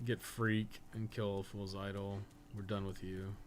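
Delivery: normal talking voice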